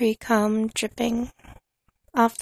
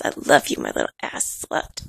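whisper. Acted. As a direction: whisper it close and low. Whispered endearment.

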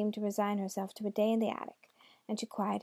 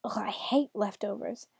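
disgusted. Acted. Devil disgusted by food.

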